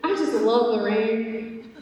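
lightly voiced man savoring the rain; musing older man. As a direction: imitate a stranger musing aloud, high start on "Man". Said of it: "just kinda talking out loud".

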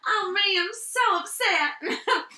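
high, laughing mock lament in a put-on Italian voice; mock upset, laughing. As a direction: wail "Oh, me" through giggles, high up.

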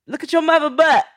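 put-on eight-year-old voice. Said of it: "an eight-year-old to be like".

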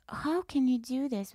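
retold tearful protest; imitating a crying lady. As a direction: mimic an upset old lady. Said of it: "like, crying".

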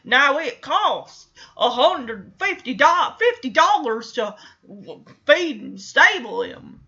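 lightly put-on old horseman voice; old stable hand. Stable hand stops missy over costs, lightly voiced old-timer. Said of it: "the guy's like".

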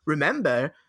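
high, projected wise-mentor voice; Dumbledore. Acted. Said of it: "he is the Dumbledore, and he says".

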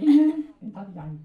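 high, cheeky ventriloquist puppet voice; puppet character. Acted. Puppet correcting its handler, high comic voice.

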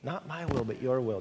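humble prayer. Acted. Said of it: "our desire should be".

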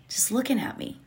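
breathy whisper of wonder; hushed whisper. Real, not acted. Telling viewers about the hummingbird, in an awed whisper. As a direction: drop to a whisper, awed by the bird.

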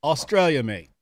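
a playful imitation of his Australian accent. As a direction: echo his Australian "Australia, mate" back at him. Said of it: "you got the cheat code accent".

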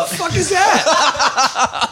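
high mock Australian, slow and laughing; hammed-up Aussie voice cracking up; Australian accent. Host mocks the guest's attempt in Australian accent. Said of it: "You sound like you're on Home and Away".

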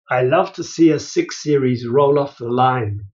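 put-on light German accent on a proud factory supervisor; mock German accent, proud of the cars. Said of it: "you have to say this in a German accent".

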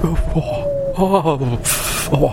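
shivering from the cold; in ice cold water. Acted. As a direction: gasp and moan at icy cold. Cold opener, freezing in cold.

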